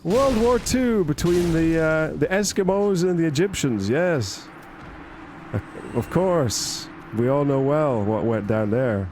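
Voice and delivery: mock a smug lecturer inventing history; confident chatbot.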